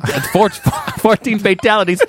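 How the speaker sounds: high laughing DJ voice; hammed-up traffic report; radio voice. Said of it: "mashup of radio voices".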